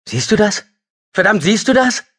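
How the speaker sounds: half-mad hysterical cry of relief. Acted. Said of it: "Er lachte hysterisch. Seine Stimme überschlug sich".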